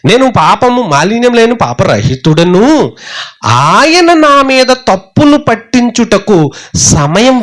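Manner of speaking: lightly voiced complaining Job; mocking Job. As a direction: stretch out Job's boast slowly. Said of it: "యోబు అన్నాడు ఈ మాటలన్నీ".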